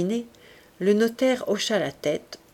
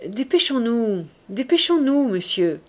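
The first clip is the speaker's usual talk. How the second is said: rising impatience, second "dépêchons-nous" louder and higher; impatient urging; 4 semitones higher, 3 dB louder than usual. A narrator's reading. Commissaire pressing the frail notary to hurry, impatient. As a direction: hurry him along, pressing harder the second time. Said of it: "répétait Gilquin".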